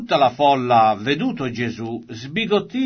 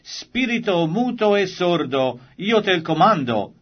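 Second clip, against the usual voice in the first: Jesus commands the unclean spirit, mildly stern; stern rebuke; 5 semitones higher than usual. Acted. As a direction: order the spirit out with firm authority. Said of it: "sgridò lo spirito immondo".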